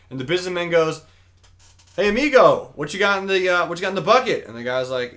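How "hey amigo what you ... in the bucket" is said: higher-pitched chummy tourist hailing someone; mock friendly hail. Businessman to fisherman on the beach, friendly hail. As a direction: call out in a lightly acted friendly voice.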